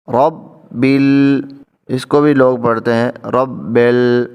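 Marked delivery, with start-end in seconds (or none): 0.1-1.4 رب ال slowly, ba joined to al; slow careful recitation. Shown as a demonstration. Teacher showing students a slow رب ال. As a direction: stretch رب ال slowly, linking the words. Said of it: "ہم اس کو دیکھتے ہیں".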